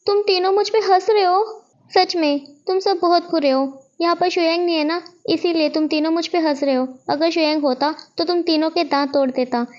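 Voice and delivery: a boy playing hurt, half-hearted near-tears whine; mock hurt whine. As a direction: pretend to be wounded that they laugh at you. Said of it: "विंग रोने वाला face बना लेता है".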